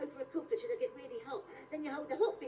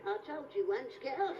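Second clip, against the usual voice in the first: Michael Caine impression; 2 semitones lower than usual. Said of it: "Michael Caine in the film Jaws two".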